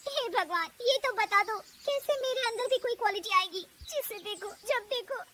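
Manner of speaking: high, plaintive plea to God; self-pitying high voice; tearful complaint. Acted. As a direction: whine it, close to crying. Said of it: "वो रोने लगती है".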